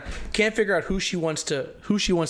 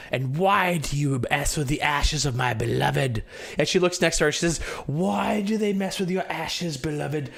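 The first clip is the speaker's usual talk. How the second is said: grieving guardian; 2 semitones higher than usual. Acted. NPC addresses dead beloved.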